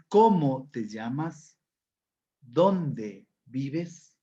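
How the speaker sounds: stressed "Cómo" and "Dónde", rising endings; question intonation. Shown as a demonstration. Teacher shows class why intonation matters, deliberate questioning. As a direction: lean on the question word, then lift the end. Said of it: "la entonación es importante al momento de formular preguntas".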